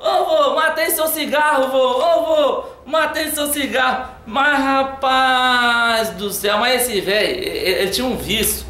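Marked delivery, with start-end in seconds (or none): 0.0-4.1 imitating a little boy yelling for his grandpa, higher and laughing; mock childish shout, laughing through it; kid yelling. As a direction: call out to grandpa like a gleeful kid. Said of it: "Aí ele começou a gritar".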